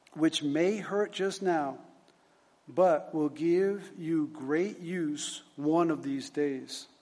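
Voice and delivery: slow, deliberate formal reading; solemn admonition read aloud. Acted. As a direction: weigh out each phrase like a stern lecture. Reads superintendent's admonition aloud.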